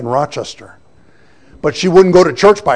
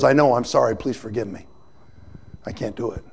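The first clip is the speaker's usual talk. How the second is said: tearful apology; 4 semitones lower, 7 dB quieter than usual. Retold or imitated. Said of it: "she's bawling her eyes out".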